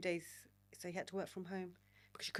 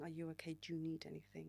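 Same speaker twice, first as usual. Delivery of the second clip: softer, caring whisper; gentle whisper; 3 semitones lower, 8 dB quieter, faster than usual. Retold or imitated. Date checking on her, gentle whisper. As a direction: ask quietly, careful not to startle. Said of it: "He just kept saying".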